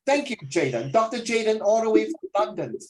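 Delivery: lightly put-on British accent; teacher welcoming "Doctor Jaden" in a jokey British accent; mock British accent. Teacher greeting the student reader in mock British accent. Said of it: "why am I talking like a British?".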